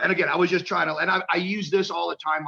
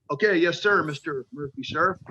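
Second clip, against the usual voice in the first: eager rookie; 3 semitones higher than usual. Retold or imitated. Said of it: "And I'm like".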